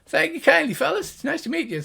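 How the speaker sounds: very high, polite gnome; gnomish voice. Acted. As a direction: chirp thanks in a high gnome voice. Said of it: "the two high-pitched gnomish voices".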